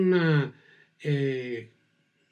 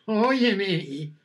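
teasing, slightly raised call; mocking; 3 semitones higher than usual. Shown as a demonstration. Teacher demonstrating a mocking tone, teasing. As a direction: tease them with it. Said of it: "Burlón".

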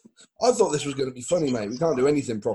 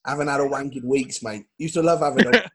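lightly imitated influencer, building louder; George Osborne; 2 semitones higher, 3 dB louder than usual. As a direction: carry on the crude influencer impression. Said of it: "That's a good impression".

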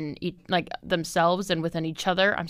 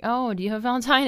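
sing-song coworker impression; 5 semitones higher, faster than usual. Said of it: "A lot of them are like".

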